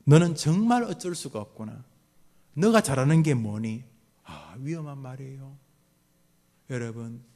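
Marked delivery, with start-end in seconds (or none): 0.1-3.8 contemptuous parent. Acted. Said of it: "가능성 부정".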